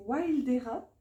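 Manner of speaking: "Wildera" said with a playful put-on English accent; name the deck with a hammed-up English flair; light self-mocking English accent on "Wildera". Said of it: "avec l'accent, n'est-ce pas? Quel accent incroyable".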